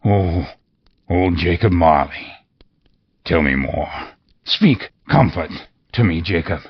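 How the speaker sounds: a touch of imploring Scrooge. Acted. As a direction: beg an old friend for comfort. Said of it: "he said imploringly".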